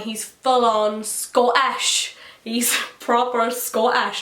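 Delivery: loud and slow, stretching each word; big emphatic reveal with a laugh breaking in; amazed emphasis. Real, not acted. Fan revealing the actor is really Scottish, loud amazement.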